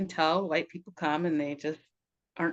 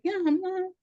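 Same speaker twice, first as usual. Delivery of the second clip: quoting herself; 6 semitones higher than usual. Retold or imitated. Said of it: "And I was like".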